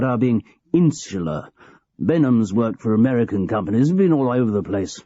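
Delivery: a hint of a cosy old manager confiding; aging boss George. George explains board's view.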